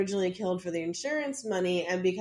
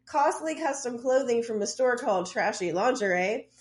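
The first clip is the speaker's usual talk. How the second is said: reading aloud. Acted. Reads out a court document.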